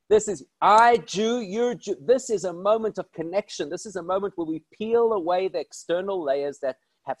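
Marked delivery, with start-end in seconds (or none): 0.6-2.0 broken English echo. Retold or imitated.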